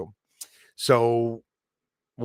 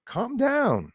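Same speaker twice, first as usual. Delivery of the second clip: calm down; 12 semitones higher than usual. Real, not acted. Soothing angry viewer.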